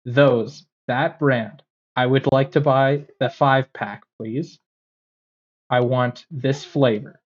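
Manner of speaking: deliberate, evenly spaced polite request; customer service voice. Retold or imitated. Customer pointing behind the clerk at the brand, careful customer-service voice. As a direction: spell out the order politely, phrase by phrase. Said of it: "I put on my customer service voice".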